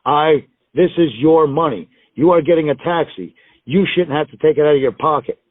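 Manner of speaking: mildly hammed-up insisting friend; imitated firm insistence. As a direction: lay it down emphatically, as if no argument allowed.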